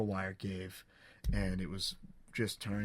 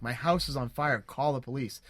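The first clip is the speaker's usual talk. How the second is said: loud and higher, urgent; panicked shout to call the police; retold screaming; 4 semitones higher, 5 dB louder than usual. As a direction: yell it at the neighbors again. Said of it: "I start screaming".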